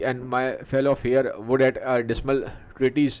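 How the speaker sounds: slow, deliberate reading of the verse; Macbeth's verse read out slowly to the class; slow Shakespeare recitation. Acted. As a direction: weigh each word of the speech. Reads Macbeth's speech aloud.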